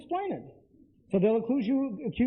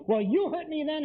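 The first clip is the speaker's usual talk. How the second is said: hurt anger; 7 semitones higher than usual. Retold or imitated. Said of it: "now it's coming out, the anger".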